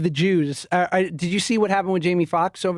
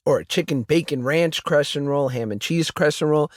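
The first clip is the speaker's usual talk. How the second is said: upbeat sponsor read; casual podcast ad read; 3 semitones lower than usual. Acted. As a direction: sell the crescent rolls with a bright pitch. Host reads a sponsor ad.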